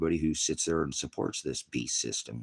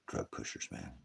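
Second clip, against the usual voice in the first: whisper; 7 semitones lower, 9 dB quieter than usual. Real, not acted. Muttered aside after a sigh.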